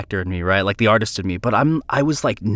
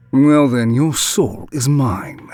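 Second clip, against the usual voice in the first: Carrie impression; slower than usual. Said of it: "give us an example of your best Carrie impression".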